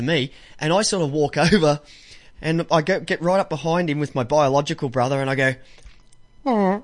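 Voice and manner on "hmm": short higher-pitched hummed toot; brief mock parp; imitated fart noise. Shown as a demonstration. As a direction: sneak out a vocal fart sound. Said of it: "like this".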